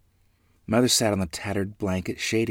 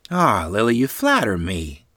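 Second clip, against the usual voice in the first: happily; 3 semitones higher, 8 dB louder than usual. A narrator's reading. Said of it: "happily replied".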